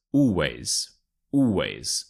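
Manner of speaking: always with ALL stressed, ways drawn out; stress on first syllable. Shown as a demonstration. Teacher to learners, always with ALL stressed. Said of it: "stress the first syllable".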